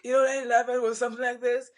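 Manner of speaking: lightly imitated raspy voice; a hint of the neighbor's rasp; raspy classmate. Copying the raspy classmate, a light hint of rasp. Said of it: "She has this raspy voice".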